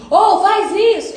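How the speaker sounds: a loud called-out command; shouting. Pretend. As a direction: bark the order from far away. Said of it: "ele não vai gritar e falar assim".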